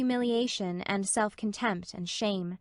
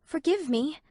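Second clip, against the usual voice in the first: higher, plaintive plea; pleading miserably; 6 semitones higher than usual. A narrator's reading. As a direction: beg forgiveness, near tears. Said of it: "pleaded Anne miserably".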